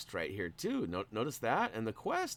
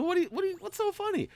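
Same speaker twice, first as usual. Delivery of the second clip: laughing while asking; much faster than usual. Retold or imitated. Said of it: "I'm like".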